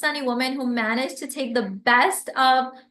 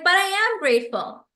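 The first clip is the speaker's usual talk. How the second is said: defensive "but I am grateful"; 5 semitones higher than usual. Shown as a demonstration. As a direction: bristle a little, as if accused of ingratitude. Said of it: "And I'm like".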